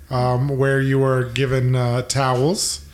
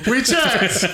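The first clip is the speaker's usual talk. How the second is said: gnome character voice; 7 semitones higher than usual. Acted. GM voices gnome NPC, laughing.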